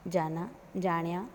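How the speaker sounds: जाण्या with a retroflex ण instead of न; rustic variant. Shown as a demonstration. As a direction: turn जाना into जाण्या. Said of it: "न के स्थान पर अण". (न को ण बोलकर जाण्या)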